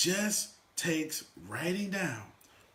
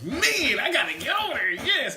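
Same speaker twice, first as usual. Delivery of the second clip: higher, loud laughing shout; eager extrovert; 9 semitones higher, 5 dB louder than usual. Retold or imitated. Extrovert eager to join the party, loud laughing. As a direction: rush toward the fun. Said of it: "Anybody's extrovert, it's like".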